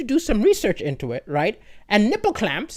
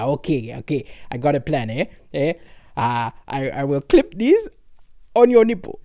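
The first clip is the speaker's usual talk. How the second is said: low, sly husband pitching his plan; lightly voiced low husband with a sneaky plan; scheming husband; 7 semitones lower than usual. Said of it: "he's being like".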